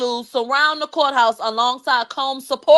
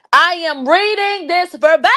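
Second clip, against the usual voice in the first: exasperated exclaim; 5 semitones higher than usual. Real, not acted. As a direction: insist in disbelief. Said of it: "repeated, exclaimed".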